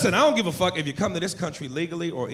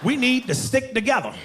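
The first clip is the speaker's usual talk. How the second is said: joyful greeting; 8 semitones higher than usual. Retold or imitated.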